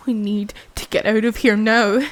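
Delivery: loud, insistent command; urgent shout. Acted. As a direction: yell that there's no time. Urging escape.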